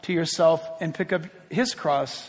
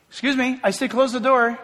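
mildly insistent, slightly raised; raised parent voice; 5 semitones higher, 4 dB louder than usual. Acted. Parent repeating an order to a kid, mildly raised voice. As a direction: repeat the order a little more firmly. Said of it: "We have to raise our voice".

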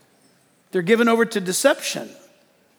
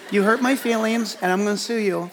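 whiny complainer. Retold or imitated. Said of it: "talking like this".

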